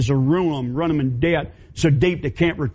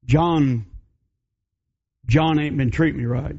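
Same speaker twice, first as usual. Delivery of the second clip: lower, hesitant stammer of a woman hiding the truth; timid battered woman; 3 semitones lower than usual. Acted. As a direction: stammer the excuse, eyes down. Mary confessing.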